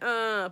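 acted groan of discomfort; imitated groan. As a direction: groan as if bothered in the dentist's chair. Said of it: "groaning if something was bothering me".

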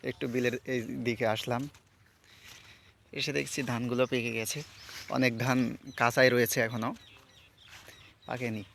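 talking around a toothbrush; while brushing teeth. Real, not acted. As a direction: speak with toothbrush in mouth. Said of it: "brush করতে করতে". (দাঁত brush করতে করতে কথা বলা)

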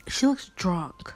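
whispered aside. Real, not acted. Vlogger whispering an aside about a player who looks drunk. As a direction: whisper it so she won't hear.

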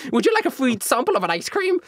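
a hint of a panicky little salesman; flustered merchant. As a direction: nervously wave off the accusation. GM voices flustered seller.

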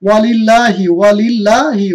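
ওয়ালিল্লাহি with a thin light লাম; recited model word. Shown as a demonstration. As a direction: recite it so the lam stays thin. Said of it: "লামটা কিন্তু অটোমেটিকে পাতলা হইতেছে". (পাতলা লামে ওয়ালিল্লাহি)

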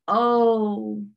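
long drawn-out creaky groan; old-door demon. Retold or imitated. Demon sitting back to answer her, creaky groan. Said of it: "he sounded like an old door".

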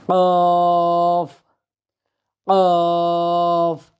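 a heavy throaty কফ with a drop; Arabic qaf. Shown as a demonstration. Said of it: "এটা হইল জিহ্বার গোড়াটা উপরের তালুর সাথে".

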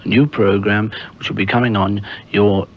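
plummy announcer, lightly done; lightly posh BBC presenter. Shown as a demonstration. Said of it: "I'm speaking now with a very posh voice".

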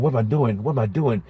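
low, soft remorseful murmur to the Lord; remorseful prayer. Retold or imitated. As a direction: whisper your shame to God.

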